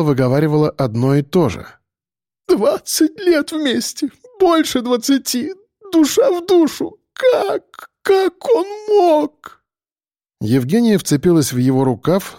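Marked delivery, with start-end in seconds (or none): 2.5-9.6 сквозь слёзы, высоко и медленно; рыдая, надрывно; всхлипывая. A narrator's reading. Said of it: "то всхлипывала". (жена плачет о предавшем муже, сквозь рыдания)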